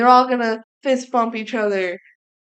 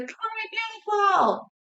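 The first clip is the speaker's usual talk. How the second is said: high, slow, overwhelmed cry; mock frantic cry; 11 semitones higher, 5 dB quieter than usual. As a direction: wail it like she's losing control of the wand. Jane flailing the wand.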